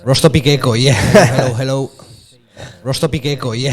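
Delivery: speaking with heavy echo. Real, not acted. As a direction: voice echoing back. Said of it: "too much echo".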